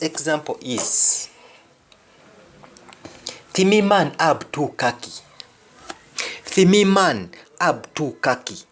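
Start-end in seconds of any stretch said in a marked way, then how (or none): 3.5-8.6 Jamaican patois "Timi man ab tu kaki", clear teaching read; patois demo. Shown as a demonstration. Teacher modelling patois for learners, clear read. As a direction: model the Jamaican line for students.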